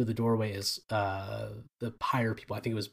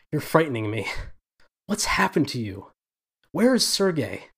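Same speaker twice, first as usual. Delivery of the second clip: wavering, frightened; 3 semitones higher than usual. Acted. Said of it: "her response is wavering".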